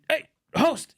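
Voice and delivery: high-pitched mock calling out; loud homie. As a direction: call to the host like a rowdy guest. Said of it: "that fool was just being loud as shit".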